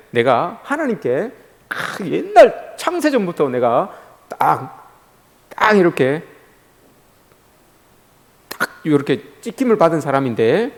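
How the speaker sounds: showing off. Pretend. Worshipper boasting of being chosen by God, slow swagger. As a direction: brag quietly, drawing it out with pride. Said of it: "좀 다 뻐기십시오".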